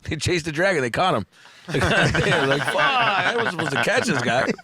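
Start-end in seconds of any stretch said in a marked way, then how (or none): 2.6-4.5 half-laughed, a touch higher; laughing mock complaint; laughing through a quote. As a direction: giggle out the junkie's line. Acting out overdose quote.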